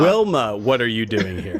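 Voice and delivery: hint of a southern accent; deep southern accent. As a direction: call the name, then drop into a southern-accented question. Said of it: "in a deep southern accent".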